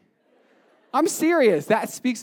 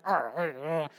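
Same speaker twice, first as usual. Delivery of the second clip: mock teeth gnashing; 4 semitones lower, 6 dB quieter, slower than usual. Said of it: "picture these people like".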